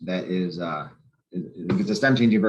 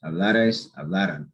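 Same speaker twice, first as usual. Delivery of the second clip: Hablares, hablaran with LA stressed; stress before the R. Shown as a demonstration. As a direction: lean on LA, the A before the R. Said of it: "it's the A before the R".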